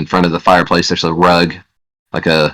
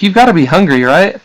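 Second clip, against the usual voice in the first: high-pitched, fussing woman; woman's voice; 11 semitones higher than usual. Acted. Woman to her visitor about food, high woman's voice. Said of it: "a voice from a woman say".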